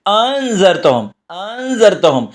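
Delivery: "انذرتہم" slowly, second hamza softened into a half-alif glide; "انذرتہم" with a slow, blurred second hamza; between hamza and alif. Shown as a demonstration. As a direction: ease the start of "انذرتہم" halfway between a catch and long aa. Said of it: "حمزہ اور الف کے درمیان کا تلفظ نکالنا".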